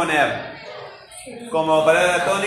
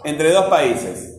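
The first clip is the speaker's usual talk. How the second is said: slow dictation; 2 semitones lower, much slower than usual. Shown as a demonstration. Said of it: "Vamos a ver este grupo acá".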